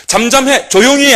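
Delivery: the crowd scolding the beggar to be silent; reproachful rebuke. Retold or imitated. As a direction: rebuke him like an indignant crowd. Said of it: "비난의 어조로 대단히 힐난하면서".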